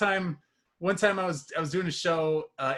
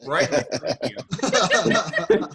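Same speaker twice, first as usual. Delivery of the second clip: a folksy farmer, half laughing through it; hammed-up farmer; 5 semitones higher, 7 dB louder than usual. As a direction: play the proud farmer boasting to city folk. Farmer voice continues.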